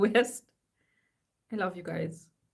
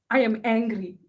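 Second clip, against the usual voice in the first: mock angry; 2 semitones higher, 9 dB louder than usual. Mock protest slogan read aloud.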